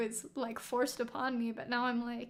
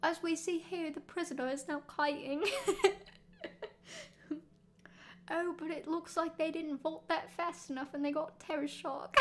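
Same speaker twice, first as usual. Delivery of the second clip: mock British commentator; 3 semitones higher than usual. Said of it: "the really bad Victorian British boy accent".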